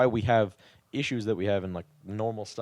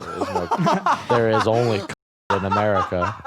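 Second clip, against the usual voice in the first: laughing; 5 dB louder than usual. Real, not acted. Group laughing at a meme.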